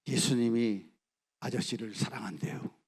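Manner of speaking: put-on boy gently telling the executioner; gentle telling. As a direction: tell him kindly and simply.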